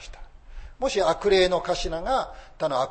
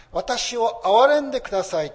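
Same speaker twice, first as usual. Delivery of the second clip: humble plea; 8 semitones higher, 9 dB louder than usual. Retold or imitated. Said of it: "へり下って願い求める者".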